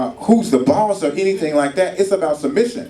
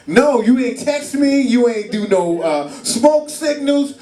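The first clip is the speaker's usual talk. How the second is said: wife scolding; 8 semitones higher, slower than usual. Retold or imitated.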